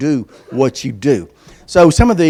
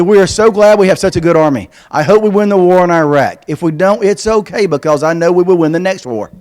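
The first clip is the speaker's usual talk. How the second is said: put-on kid's voice; 4 semitones higher than usual. Reading an optimistic kid's letter.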